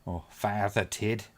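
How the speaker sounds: slow, lightly put-on Irish accent; mock Irish lilt, drawn out. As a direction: say it slowly with a hint of Irish accent. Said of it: "wouldn't have done it with an Irish accent".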